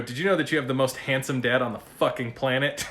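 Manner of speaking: playful over-the-top bragging to his daughter; hammed-up cocky dad showing off; mock boastful brag. Dad teasing his daughter every morning, mock boastful brag. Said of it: "I say it just like that".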